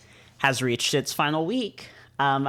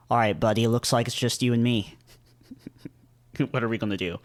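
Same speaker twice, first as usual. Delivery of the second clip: put-on British accent; 4 semitones lower, faster than usual. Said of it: "Did I make him British?".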